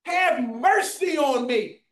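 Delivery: slow, drawn-out plea for mercy; imitated plea aloud. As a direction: stretch out the cry of a man begging. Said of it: "He wasn't being quiet about it".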